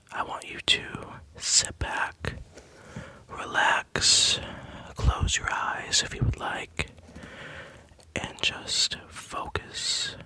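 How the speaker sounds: slow, soothing whisper; right in your ear. Acted. Guiding listener to relax.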